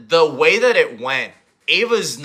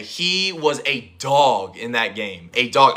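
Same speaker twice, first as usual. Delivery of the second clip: hoarse, half-lost voice; 3 semitones lower, slower than usual. Real, not acted. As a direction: talk through a worn-out throat. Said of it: "I lost my voice".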